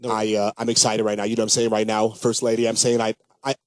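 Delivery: a lightly voiced, fast-talking smooth movie guy; Vince Vaughn impression. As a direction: rattle it off like a cocky smooth talker. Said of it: "What would Vince Vaughn say?".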